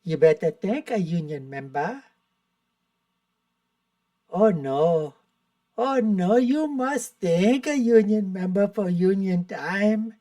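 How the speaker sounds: a light South Indian accent impression; mild imitation of a South Indian accent; mock South Indian accent. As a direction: parody a South Indian speaker, sing-song and unhurried. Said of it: "It would probably go something like this".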